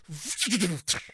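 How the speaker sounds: imitated ladder extending; mechanical ratcheting noise. Game master showing the ladder springing up, ratcheting noise. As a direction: rattle out a quick mechanical whirr.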